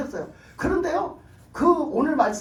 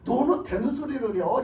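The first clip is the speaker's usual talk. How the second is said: imitated gloating conqueror; mocking taunt. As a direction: rub the conquest in their faces. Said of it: "히스기야를 희롱하는 거예요".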